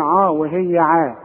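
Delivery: عاه with a heavy, backed vowel against a light one; mispronounced Ayn. Shown as a demonstration. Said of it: "بنقولها غلط".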